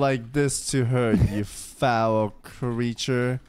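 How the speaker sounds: slow mock-chivalrous scolding; knight rebuke. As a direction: scold him like a gallant knight.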